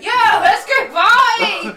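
high, loud, drawn-out party yell; party-animal robot. Acted. Co-host imagines a robot version of themselves, rowdy party shout. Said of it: "one like me that would be like".

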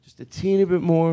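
overly courteous mic request; super nice. Acted. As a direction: ask the sound guy extra nicely. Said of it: "even if you're super nice".

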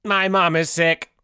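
flat robot with beeps; monotone machine voice. Acted. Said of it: "Robot Tim".

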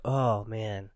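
low, soft mock dismay; mildly bummed. Co-host imitating the driver after the crash, mild dismay. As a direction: sigh it out, barely troubled.

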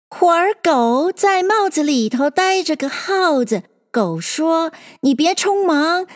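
high, swinging rhyme recital; verse recitation. Acted. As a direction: recite it like a rhyming tale. Recites the mouse's tale as verse.

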